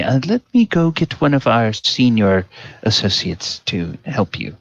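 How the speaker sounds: high, stammering, flustered apology; flustered high clerk voice. Acted. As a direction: babble it out, embarrassed.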